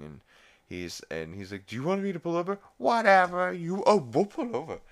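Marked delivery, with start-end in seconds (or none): 1.7-4.8 high, exasperated put-on threat; mock scolding parent. Scolding Chris in the car, high mock-exasperated threat. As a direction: threaten in a high, worked-up cartoon voice.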